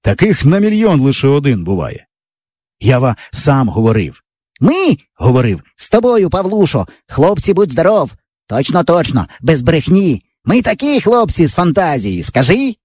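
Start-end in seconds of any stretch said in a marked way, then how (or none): 4.6-12.8 put-on raised, eager boyish voice; boastful boy. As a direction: brag to your buddy with enthusiasm. Yava boasting to friend. (хлопчина хвалиться другові)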